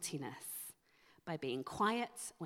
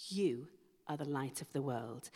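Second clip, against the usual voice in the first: You set apart and pressed before a pause; stress on you; 3 semitones lower than usual. Shown as a demonstration. Preacher to congregation, You stressed alone. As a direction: pause after You and let it land. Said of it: "It is emphatic".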